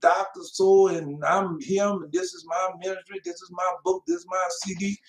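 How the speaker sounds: lightly voiced proud preacher bragging about himself; a hint of a puffed-up pastor listing his titles; mock boastful preacher. Preacher mocks boastful ministers, lightly voiced bragging. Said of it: "They proud, arrogant, boastful".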